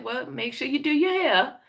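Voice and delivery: a hint of a fussing grandma. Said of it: "She said".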